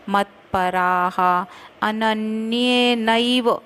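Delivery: अनन्येनैव with नै, not नेव, said slowly; nai in अनन्येनैव. Shown as a demonstration. Teacher correcting students on अनन्येनैव. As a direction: stretch अनन्येनैव as a-nan-ye-naiv. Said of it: "नेव नहीं".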